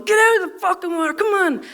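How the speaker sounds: high, loud, fast yell; shouting dog owner. Retold or imitated. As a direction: bellow it at the dog in the water. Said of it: "coming towards the dog going".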